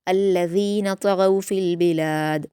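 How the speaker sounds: slow, melodic Quranic recitation; measured Quran recitation; tajweed recitation. Shown as a demonstration. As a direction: recite it slowly and carefully as a model for students. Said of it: "last में कलकला करेंगे".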